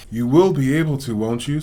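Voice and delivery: anxious pleading question; plead, hoping for a yes; desperate. Acted. Boy begging the nurse about his arm, anxious. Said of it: "said Harry desperately".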